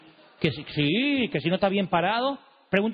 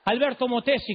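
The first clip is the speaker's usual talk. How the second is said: imitating Alberto Motesi; 4 semitones higher than usual. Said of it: "Porque él habla así".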